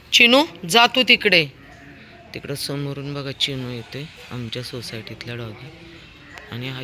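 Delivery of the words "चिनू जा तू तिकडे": loud, high call to send the dog off; firm shout at a stray dog; shooing call. Real, not acted. Shooing neighbour dog away.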